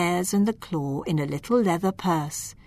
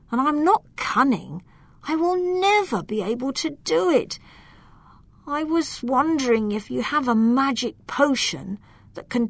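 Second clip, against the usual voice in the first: groaning lament; 5 semitones higher than usual. Acted. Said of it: "He groaned".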